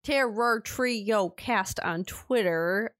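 slow, drawn-out cowboy delivery; slow cowboy drawl. Shown as a demonstration. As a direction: stretch Terror Trio Cast on Twitter like a cowboy. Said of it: "You sound like a cowboy just now".

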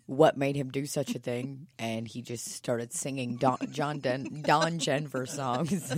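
low, halting official statement; police press conference. Acted. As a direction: read out a mock suspect description deadpan.

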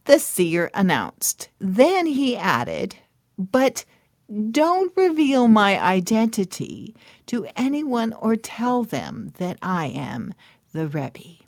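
storyteller voice with musing hums; measured storytelling read with thoughtful pauses; story narration. A narrator's reading. Reads a Hasidic tale aloud.

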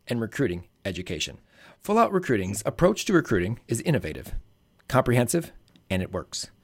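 polished podcast ad read with punched key words; sponsor ad read. Acted. Host pitching recruiting service and protein bar to gymnastics listeners, ad read. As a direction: read it as scripted promo copy in short, measured phrases. Reads two sponsor ads.

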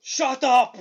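loud growled shout, laughing through it; Andre impression. Cohost imitating Andre's pre-match interview, loud mock shout. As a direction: bark it out like a giant wrestler, amused. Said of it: "And he goes".

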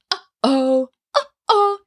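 uh-oh with a hard glottal onset; glottal clicks. Shown as a demonstration. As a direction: click the vocal folds together. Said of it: "Can you hear the little clicks?".

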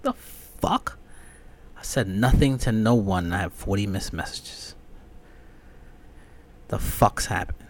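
incredulous outburst at the messages; what the hell is this; baffled. Retold or imitated. Waking up to forty group chat messages, baffled.

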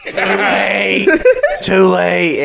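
giggled too late; amused retold excuse; laughing quote. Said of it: "He goes".

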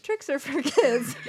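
slow, quoted commercial slogan; old commercial catchphrase. Retold or imitated. Friend retells an old commercial joke, mimicked catchphrase. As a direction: mimic an old ad line slowly. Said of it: "it's like old commercial joke".

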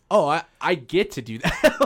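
hammed-up realization, lifted pitch, a laugh creeping in; mock eagerness. Comic mimicking fans who watched their idol, mock eager.

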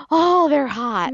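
slow, drawn-out "oh, they're super hot"; impressed reaction. Retold or imitated. Contestants seeing their partners for the first time, slow and impressed. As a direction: stretch it out, pleasantly surprised.

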